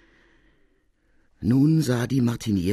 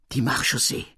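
mild cry; 4 semitones higher than usual. Acted. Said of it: "schrie die Martinière".

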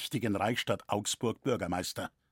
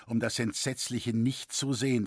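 usual speaking voice

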